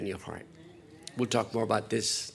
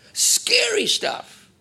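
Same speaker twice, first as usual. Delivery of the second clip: higher, slower whisper with more force; whispered warning; 6 dB louder, much slower than usual. Real, not acted. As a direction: whisper it again, leaning in harder.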